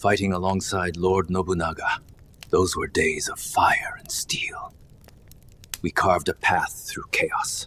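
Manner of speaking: put-on elderly man whispering. Demonstrating a voice clip of an old man whispering. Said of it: "this old man whispering".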